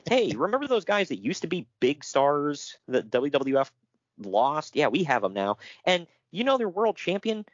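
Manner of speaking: imitated smug put-down; mock gloating. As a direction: brag mockingly, pitch jumping up. Acting out rival company's gloating boast.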